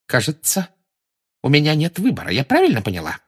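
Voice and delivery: strained, reluctant surrender; trembling voice. A narrator's reading. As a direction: give in with a slight tremble. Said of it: "сказала Рита дрожащим голосом".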